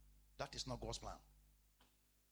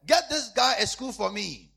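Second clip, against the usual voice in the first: retold order; 8 semitones higher, 13 dB louder, slower than usual. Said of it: "Then I said".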